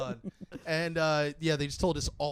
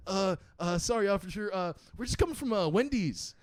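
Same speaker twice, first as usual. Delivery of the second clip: higher-pitched, stammering mock excuse to an officer; hesitant excuse; 3 semitones higher than usual. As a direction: imitate a stoned friend fumbling a lie. High friend lying to cop.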